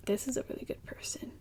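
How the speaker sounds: soft unvoiced whisper; whispered aside. Viewer's reaction to Laurens, whispered. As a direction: breathe it like a fond secret. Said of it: "you're like".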